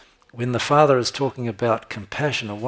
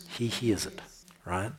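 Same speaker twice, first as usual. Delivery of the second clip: breathy hushed whisper; 7 dB quieter than usual. Acted. Preacher whispering to the congregation that God hears every cry. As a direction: lean in and whisper it.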